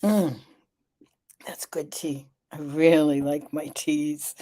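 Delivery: savouring a sip of tea; sipping hot tea. Real, not acted. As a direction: hum over hot tea. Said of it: "I'm gonna have a sip of my tea".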